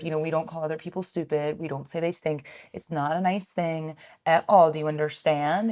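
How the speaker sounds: soft, patient parent voice; gentle talk to child. Retold or imitated. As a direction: explain it gently to the little one. Gently lecturing her toddler son.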